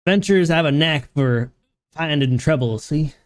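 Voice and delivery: put-on lightly accented innkeeper; knowing barkeep in a put-on dialect; a hint of rustic fantasy accent; tavern keeper in dialect. Reading the innkeeper's dialogue.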